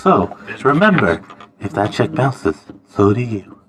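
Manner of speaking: low, close-mic promo threat; wrestling promo. Acted. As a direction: growl it into the mic like a heel. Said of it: "I'm gonna get really close to this mic".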